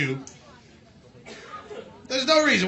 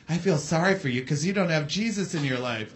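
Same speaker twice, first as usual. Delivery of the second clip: low, soft mock-pious voice, far quieter; pious pity; 7 semitones lower, 7 dB quieter than usual. Comic mocks a believer with soft pious pity. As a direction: sneer it out as a churchgoer offering pity.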